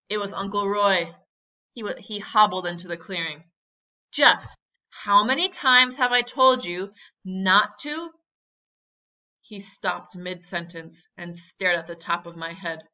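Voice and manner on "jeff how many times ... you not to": loud, high-pitched telling-off; scolding. A narrator's reading. Uncle scolding Jeff in the jungle, loud and exasperated. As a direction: scold sharply, then break off mid-sentence.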